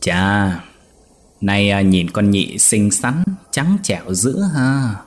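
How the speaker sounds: lightly voiced lecherous old man, slow; drawn-out sly leer, a touch of slow creep; sly leering old master. Old master eyeing the young maid, slow sly leer. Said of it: "lão cười gian tà nói".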